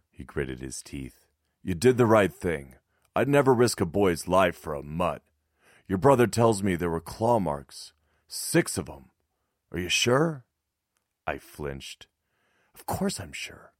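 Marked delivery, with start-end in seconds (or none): 1.7-12.1 lightly voiced, firm older man; a hint of stern resistance leader; gruff neighbour voice. 12.7-13.7 whispered. Acted. Boy answers after flinching.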